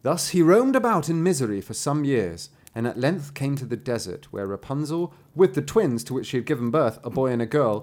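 heightened fairy-tale reading; dramatic story narration. A narrator's reading. Narrator telling of the braids being cut, dramatic storytelling.

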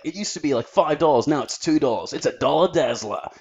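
lightly voiced TV salesman; a hint of a hard-sell advert; TV sales pitch. Explaining slang with a TV ad, light sales pitch. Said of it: "a term they use for when they're selling something on T V".

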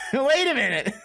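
high-pitched, laughing disbelief; amused protest breaking into laughter. Real, not acted. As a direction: say it through a laugh. Laughing at friend's rule.

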